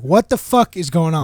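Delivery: retold annoyance, loud; annoyed. Boss coming downstairs to the employee, annoyed. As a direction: demand answers, mildly fed up. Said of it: "annoyed at this point".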